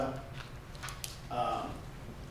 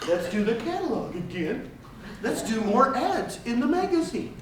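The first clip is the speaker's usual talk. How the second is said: mocking brokers; 6 semitones higher, 3 dB louder than usual.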